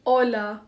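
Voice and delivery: "Hola" with a silent H and an open O and A; smooth open vowels. Shown as a demonstration. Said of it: "Smooth open vowels".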